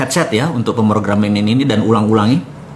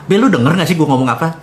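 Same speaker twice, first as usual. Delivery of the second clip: quick, raised, exasperated question; impatient plea; 7 semitones higher, faster than usual. Retold or imitated. Young man nagging his silent godfather Babe, impatient. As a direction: push him to answer, fed up.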